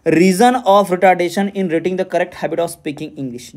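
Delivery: reads the exam question aloud slowly and deliberately; slow question reading. Acted. Teacher reading a quiz question to students, slow and deliberate. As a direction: dictate each word of the question slowly.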